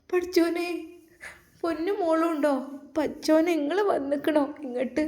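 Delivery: high, glad cry of welcome; delighted surprise. Acted. Grandmother surprised to see the family arrive, high delighted welcome. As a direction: greet them with delighted surprise.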